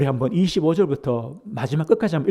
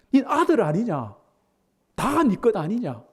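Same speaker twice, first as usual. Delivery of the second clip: pleading father; 5 semitones higher than usual. Retold or imitated. Father voiced again.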